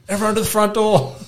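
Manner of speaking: high, loud mock panic to herd the kids; alarmed order. Mum warning her kids about a bush turkey, high mock alarm. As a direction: call the kids inside like the bird is coming. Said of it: "and I was just like".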